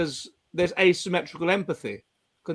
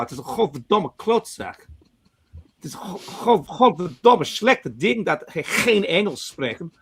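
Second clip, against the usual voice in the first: mock Dutch rant; 2 semitones higher than usual. An airport grumble as an outraged Dutchman. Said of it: "It's outrageous".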